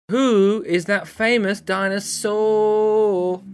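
slow, drawn-out announcer voice; game show announcer. Shown as a demonstration. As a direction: announce the game title grandly. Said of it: "That's the name of the game".

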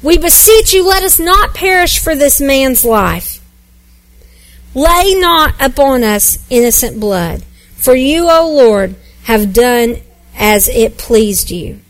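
a mild plea cried out to God, not shouted; lightly voiced desperate sailors praying; pleading cry to the Lord. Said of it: "they cried to the Lord".

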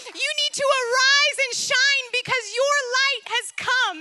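rising exhortation that swells into a loud rallying cry; urging on. Retold or imitated. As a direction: push her forward like a coach, swelling to a proclamation. Jesus urging her on.

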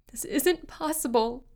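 high, panicked disbelief; frightened cry. Acted. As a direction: cry it out, voice climbing in fear. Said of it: "she cried".

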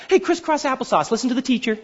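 mock classroom teacher; kindergarten teacher. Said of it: "This isn't that".

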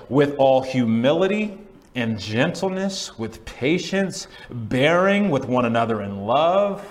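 slow, swelling proclamation; impassioned scripture reading; loud scripture reading. Real, not acted. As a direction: read it out with drawn-out key words. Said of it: "read those aloud and loudly".

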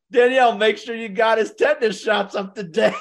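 teasing the sister while laughing; laughing joke. Real, not acted. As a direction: toss the line out while chuckling.

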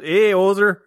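lightly voiced Canadian hoser; a hint of a comic Canadian voice; Rick Moranis. Joking about his half-Canadian Kermit, light hoser voice. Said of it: "half Rick Moranis".

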